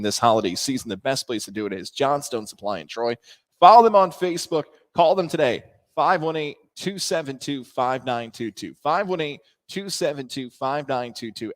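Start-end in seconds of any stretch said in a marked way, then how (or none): 3.6-11.5 louder, punchy ad announcer voice; ad read. Acted. Host plugging a sponsor to listeners, punchy ad read. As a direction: spell out the number like a radio spot. Reading phone number in ad.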